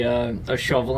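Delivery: ordinary talk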